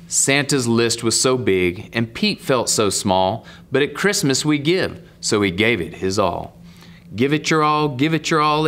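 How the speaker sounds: lilting picture-book read, rising and falling; story narration. Acted. Man reads Pete the Cat to young viewers, storytelling lilt. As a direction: read the rhyme out with a swing.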